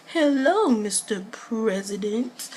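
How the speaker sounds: a lightly voiced toddler greeting; baby voice. Vlogger voices baby Aiden greeting, lightly cute. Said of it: "He was just like".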